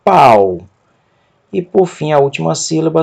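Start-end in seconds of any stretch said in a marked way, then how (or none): 0.0-0.6 "pau" as one stressed syllable, a gliding to u; accented diphthong. Shown as a demonstration. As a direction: land firmly on "pau" with a falling glide. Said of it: "com acento na segunda vogal do ditongo".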